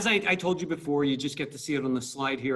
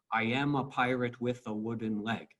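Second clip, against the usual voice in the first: "i AM a PIrate WITH a WOODen LEG"; iambic beat; 2 semitones lower than usual. Shown as a demonstration. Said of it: "We're talking iambic pentameter".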